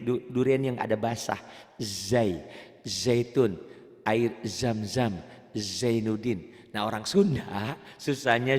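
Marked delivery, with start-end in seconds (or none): 1.8-6.5 measured drill of the Z in "zam-zam"; indulgent, wet Z in "Zainuddin"; soft, juicy Z. Shown as a demonstration. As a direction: linger on the buzzing Z of "Zai" and "zaitun". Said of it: "za itu agak manja gitu loh".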